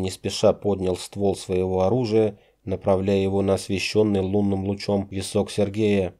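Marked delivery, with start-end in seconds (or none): none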